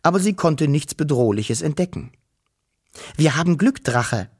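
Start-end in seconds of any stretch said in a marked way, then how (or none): 3.2-4.3 Wischel relieved. Acted. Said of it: "sagte sie".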